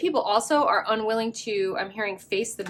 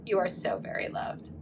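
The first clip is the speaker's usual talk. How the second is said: softly whispered, tender and sincere; 5 dB quieter than usual. Real, not acted. Reader whispering love to her pile ones, tender whisper. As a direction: breathe it out like a secret blessing. Tender closing message, unvoiced.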